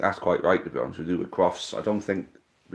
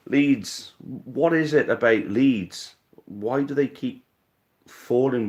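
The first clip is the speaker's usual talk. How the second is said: mocking; 3 semitones higher, slower than usual. Real, not acted. Mocking rival club's losses.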